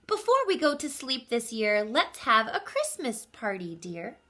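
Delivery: sleepy, gentle mother bear; lightly voiced mother bear; Mama Bear voice.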